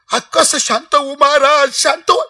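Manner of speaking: imitated aggrieved mourner; mock tearful protest. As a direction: throw the advice back in hammed-up distress. Mourner protests being calmed.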